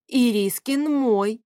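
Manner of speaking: slow, forceful cry; mild shriek. Acted. Woman shrieks to Favius that the cat is hers. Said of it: "взвизгнула я".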